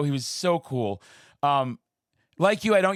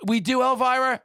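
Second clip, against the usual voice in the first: surprised; 9 semitones higher, 3 dB louder than usual. Retold or imitated. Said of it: "And I was like".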